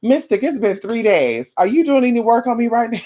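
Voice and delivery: nagging client. Acted. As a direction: lightly mimic an impatient caller. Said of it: "You might wanna pick up the phone".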